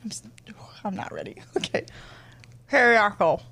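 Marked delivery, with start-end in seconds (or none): 2.7-3.4 screechy dinosaur squawk; pterodactyl screech. Shown as a demonstration. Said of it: "you're gonna make a pterodactyl noise".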